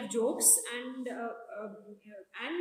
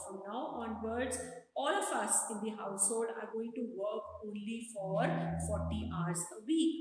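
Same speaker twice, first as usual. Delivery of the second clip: calm; 2 semitones lower than usual. Acted. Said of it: "very calmly".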